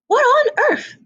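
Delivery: startled cry. Acted. Hen startled by duckling.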